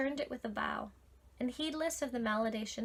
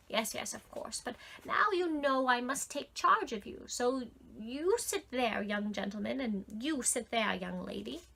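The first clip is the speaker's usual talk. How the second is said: put-on fussy old man.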